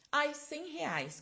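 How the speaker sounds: high, drawn-out patient reply; slow, high mock client voice; imitated patient. Voices patient answering budget question.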